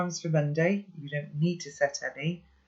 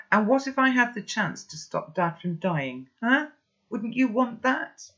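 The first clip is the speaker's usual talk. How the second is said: raised voice; 8 semitones higher than usual. A narrator's reading. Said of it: "I've raised my voice".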